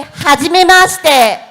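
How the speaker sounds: Hajimemashite spoken loud and distinct for the class to copy; careful Japanese demo. Shown as a demonstration.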